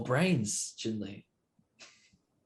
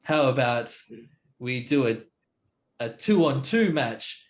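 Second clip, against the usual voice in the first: slow, louder in-character challenge; 2 semitones higher, 4 dB louder, slower than usual. Acted. Player to hobgoblin proposing a two-on-two match, drawn-out challenge. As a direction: draw out a challenge to the warriors.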